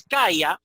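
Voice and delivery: CALLA as CAI-a, stressed first syllable; diphthong ay. Shown as a demonstration. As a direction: say CALLA with a-i as one glide. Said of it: "habría un diptongo ay".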